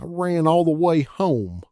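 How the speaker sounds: hammed-up falsetto mockery; doo-wop singer falsetto. A narrator's reading. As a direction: warble it like a mocking doo-wop singer. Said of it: "dreadful doo-wop falsetto".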